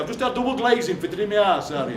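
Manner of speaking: lightly imitated Derbyshire, house flattened to "arse"; touch of North Derbyshire dialect; North Derbyshire accent. Auntie Mabel tells Harry about glazing, Derbyshire accent. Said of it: "where they call their house their arse".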